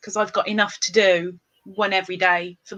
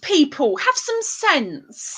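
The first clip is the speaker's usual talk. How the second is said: mock scolding; 10 semitones higher, slower than usual.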